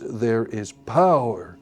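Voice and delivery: "power" weighted with a slow fall; stress on power. Shown as a demonstration. Teacher showing where the chorus accent falls. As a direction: make "power" the strong beat. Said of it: "Power gets the emphasis".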